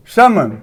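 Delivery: समन said with no L sound at all; silent L demo. Shown as a demonstration. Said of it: "एल का उच्चारण नहीं किया जाता।".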